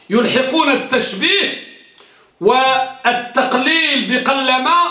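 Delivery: بقلما drawn out slowly; slow dictation. Shown as a demonstration. Teacher dictating the rule to students, slow. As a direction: dictate slowly so they can write. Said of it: "سجلوها".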